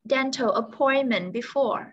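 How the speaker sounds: slow, clear Did you have any dental appointment before; slowed repeat. Shown as a demonstration. Teacher slowly repeats the question for a confused student.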